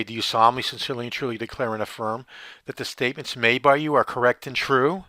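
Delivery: a brisk questioning read with "truly" rising; asked as a question. Shown as a demonstration. Notary asking the signer to affirm, questioning tune. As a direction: make the affirmation a real question. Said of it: "You're asking them a question, right?".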